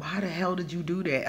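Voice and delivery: mildly mad at oneself; retold self-scolding. Speaker recalling scolding herself after a mistake, mildly angry. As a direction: imitate old exasperation without raising the voice. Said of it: "when I would get mad".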